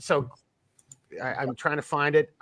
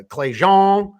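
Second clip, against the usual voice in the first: higher, louder attempt at New Orleans; New Orleans accent; 5 semitones higher, 8 dB louder than usual. Shown as a demonstration. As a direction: give the name your best New Orleans drawl. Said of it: "trying to do my best New Orleans".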